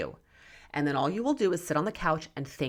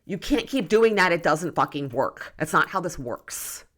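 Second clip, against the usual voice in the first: exasperated outburst; 3 dB louder than usual. Retold or imitated. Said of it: "I wanna, like, shake them and be like".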